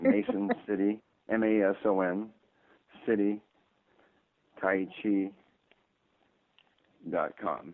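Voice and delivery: slow and spelled out letter by letter; careful, deliberate dictation with long pauses; over enunciating. Shown as a demonstration.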